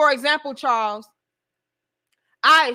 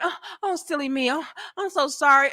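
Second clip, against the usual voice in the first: mock coy apology; 4 semitones higher, faster than usual. Acts out woman's coy apology.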